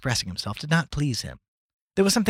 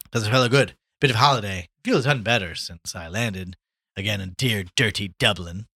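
lightly voiced hearty talker, louder; breezy Gallagher, chatting; 2 semitones higher, 5 dB louder than usual. Gallagher tells his old friend about press life, breezy. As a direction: rattle on like a worldly newspaperman.

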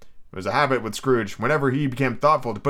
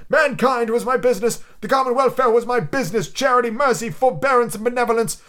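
ghost voice; 10 semitones higher, 4 dB louder than usual. Acted. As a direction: intone it like a chained spirit. Ghost laments.

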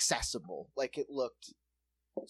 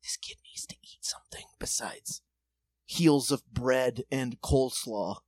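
hushed pity; 3 semitones lower than usual. Retold or imitated. Imagined neighbor's pitying thought.

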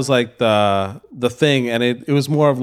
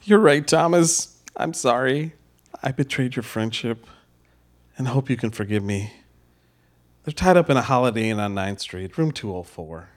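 remorseful; 3 semitones lower, 4 dB quieter than usual. Acted. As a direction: confess with regret. Remorseful confession.

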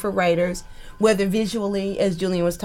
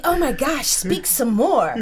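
mock swooning; 5 semitones higher than usual. Americans swooning over British accent.

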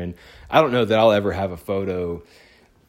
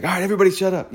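raised voice, calling the room to order; mock hushing yell; 12 semitones higher, 6 dB louder, much faster than usual. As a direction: imitate a dad hushing a rowdy room. Retelling dad hushing excited kids.

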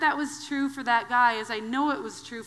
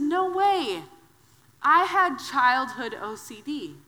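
mock excited; 3 semitones higher, 4 dB louder, slower than usual. Excited reply to therapist.

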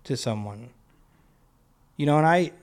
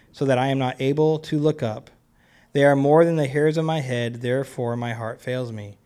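a touch louder, earnest psalm reading; scripture reading; 3 dB louder than usual. Acted. Preacher reading the psalm to the congregation, earnest reading. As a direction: read David's plea with feeling.

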